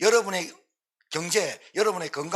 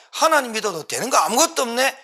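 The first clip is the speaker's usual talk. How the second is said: 하나님을 원망; 5 semitones higher, 4 dB louder than usual. Acted. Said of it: "여호와를 망령때기를 걸어요".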